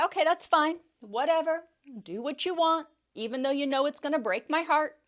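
sulky, resigned giving in; a touch of mock hurt; passive aggressive. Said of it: "They may be passive aggressive".

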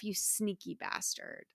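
muttered aside. Retold or imitated. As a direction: mutter it to yourself with grudging respect. Killer muttering to himself.

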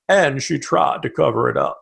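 a hint of a dry, unmoved Senate leader; the host slips into a mild McConnell voice to mock the attack line; Mitch McConnell impression. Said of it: "Could you tell I like doing Mitch McConnell?".

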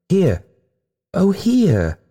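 high, anguished falling cry; sobbed cry. A narrator's reading. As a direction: call out high as if sobbing. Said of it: "she sobbed".

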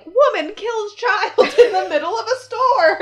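high, loud mock news announcement; mock headline. Imagining the report of her own murder, mock-announcer outcry. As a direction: proclaim it like a shocking headline, breaking into a laugh. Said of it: "It would have been like".

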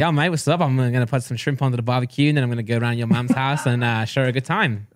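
run-on Australian accent attempt. Second go for podcast mates, Australian accent. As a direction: rattle on in a put-on Australian accent. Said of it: "I wanna hear his again".

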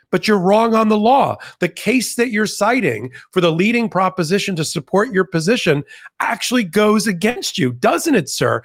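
challenging judge. Retold or imitated. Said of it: "challenged him on and basically said".

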